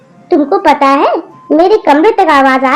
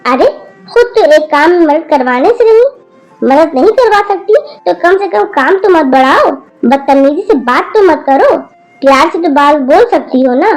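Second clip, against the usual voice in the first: scolding grandmother. Acted. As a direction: tell off the rude granddaughter. Grandmother's long angry scolding. (पोती को गुस्से में डांटती दादी)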